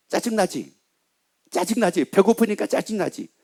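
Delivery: soft, insinuating prods; understated needling tempter; tempting devil. Acted. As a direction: quietly egg someone on, lightly acted. Devil goading a hungry husband.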